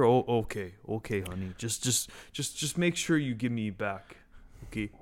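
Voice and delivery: mock old dad. Mocking rich old father Bob.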